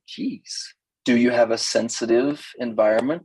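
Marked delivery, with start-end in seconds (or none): 0.1-0.7 high, breathy exasperated "Jeez". Retold or imitated. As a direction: blow it out, fed up. Exasperated reply to crybaby.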